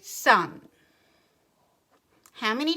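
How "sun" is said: SUN loud, as one separate chunk; robot talk. Shown as a demonstration. Teacher demonstrating one syllable to children, loud robotic SUN. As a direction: say SUN like a robot in a single strong beat. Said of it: "say it slowly like a robot".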